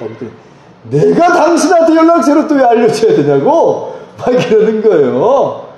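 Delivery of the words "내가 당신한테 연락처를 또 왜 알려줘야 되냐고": imitated irritated retort, pitched up; retold angry outburst. Parking operator refusing the pastor the owner's number, retold angrily. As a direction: mimic an indignant refusal, higher pitched. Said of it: "너무 분노를 터뜨려서".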